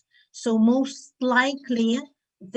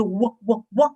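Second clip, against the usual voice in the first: wind noise. Pretend. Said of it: "you can also say wah".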